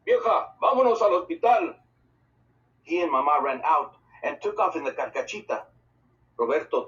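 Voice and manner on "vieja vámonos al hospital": urgent yell, high and loud; a father yelling to hurry to the hospital. A narrator's reading. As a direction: call out to Mama in a panic. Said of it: "and yelled".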